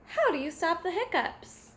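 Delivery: ordinary delivery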